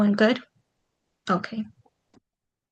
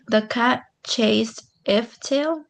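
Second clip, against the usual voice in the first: slow, tentative reading of "The cat chased if tail."; trying a wrong word; slower than usual. Shown as a demonstration. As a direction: read "if" slowly as a test. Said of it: "That doesn't go right".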